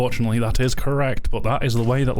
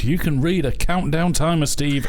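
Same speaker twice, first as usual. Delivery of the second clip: dry mock praise; sarcastic; 4 semitones higher than usual. Real, not acted. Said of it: "that sounded so sarcastic".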